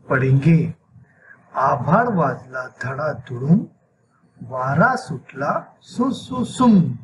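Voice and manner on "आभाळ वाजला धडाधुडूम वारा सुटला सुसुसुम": put-on slow, measured children's verse, sound words drawn out; poem recitation. Shown as a demonstration. Teacher shows children how the poem is read, slow recitation. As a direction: recite it line by line for pupils. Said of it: "इस नज़म को कैसे पढ़ा जाता है".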